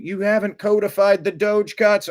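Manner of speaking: high, loud mock yell of a panicking critic; hammed-up panicked shouting; mock screaming. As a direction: shriek it like a hysterical critic. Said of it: "for the people screaming".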